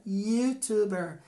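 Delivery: "Youtuber" slow, with a yoo at the start; English pronunciation. Shown as a demonstration. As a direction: model the English word slowly. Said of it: "Eu tenho que falar youtuber". (pronúncia em inglês: "Youtuber" devagar)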